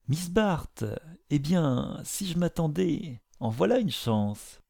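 high, bright cry of surprise; surprised exclamation. A narrator's reading. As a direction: exclaim it as if caught off guard. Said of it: "s'écria avec surprise".

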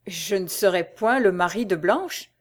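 echoing the words back in disbelief; stunned, questioning echo; stupefied disbelief. Acted. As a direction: repeat it as if you can't believe your ears. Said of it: "stupéfait et ne pouvant croire à ce qu'il entendait".

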